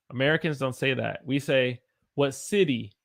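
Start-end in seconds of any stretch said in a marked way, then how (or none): 2.1-2.9 "What city" run together, T flapped; flowing American. Shown as a demonstration. Teacher showing linked American speech. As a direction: let "What city" flow as one. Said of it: "It kinda flows".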